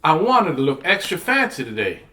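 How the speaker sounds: mildly plaintive little complaint; a touch of pouty disappointment; sad. Acted. Dirtied girl to her teacher, mildly sad. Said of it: "I said sadly".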